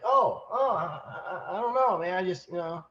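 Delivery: high, stammering mock shock; retelling the stowaway caught in the boat, stammering high and shocked. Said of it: "he looks up, shocked".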